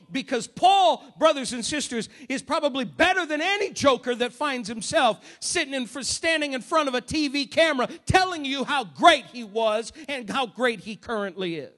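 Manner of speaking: loud, driving rebuke; forceful preaching. Real, not acted. Preacher to congregation, loud forceful rebuke. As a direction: hammer it home at the TV preachers.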